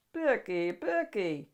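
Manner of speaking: a hint of a whiny complaint; complaining monster. Herbert complaining to Becky, mild whine. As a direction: whine her name twice, let down. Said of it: "Herbert complained".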